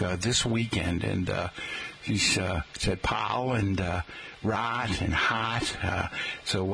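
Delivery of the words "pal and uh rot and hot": great aunt's upstate New York vowels; lightly imitated upstate New York accent. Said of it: "we know where she was from".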